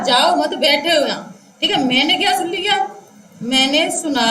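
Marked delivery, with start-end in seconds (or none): 0.0-1.3 जाओ मत as one unit, बैठे हो यहाँ as the next; pause after मत. Shown as a demonstration. Teacher repeating the speaker's words, grouped with the break after मत. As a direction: join जाओ to मत, then start afresh on बैठे. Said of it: "उसने कहा".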